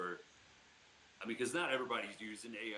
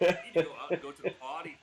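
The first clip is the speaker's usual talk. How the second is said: much louder talking dog; a dog demanding potty time; 4 semitones higher, 10 dB louder than usual. Pretend. Voicing the dog.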